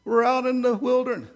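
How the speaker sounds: deliberately awful nasal whinge; horrible whiny voice. Acted. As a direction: whine like a spoiled grumbler pining for the old days. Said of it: "That's just a horrible voice".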